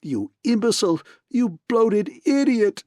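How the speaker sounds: furious man screaming insults at partner. A narrator's reading. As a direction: shriek insults in rage. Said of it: "he screamed at Gutman".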